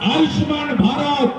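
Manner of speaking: forceful stump oratory, each phrase held apart; political rally speech. Real, not acted. Speaker urging supporters to change the state government, forceful rally oratory. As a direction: declaim to the crowd in punchy, paused phrases.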